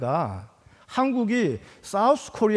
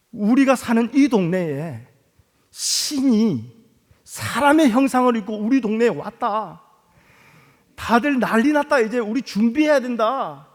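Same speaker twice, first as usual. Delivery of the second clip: excited shouting crowd; 3 semitones higher than usual. Retold or imitated. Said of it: "서로가 막 외쳤던 거예요".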